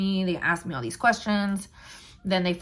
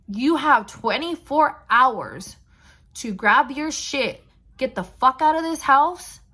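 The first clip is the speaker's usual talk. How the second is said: slow, loud and much higher, building to a shout; stern cop ultimatum; 6 semitones higher, 6 dB louder, slower than usual. Retold or imitated. Police officer orders her out of the house, slow and loud. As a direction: lay down the law, each word hammered.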